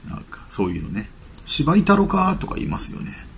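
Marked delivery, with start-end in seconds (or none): 1.4-2.4 lightly acted Kansai threat, pitched up; a touch of mock Kansai menace; Kansai tough talk. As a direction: toss out rough Kansai slang, raised pitch. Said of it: "関西のね、 えぐい言葉ですよね".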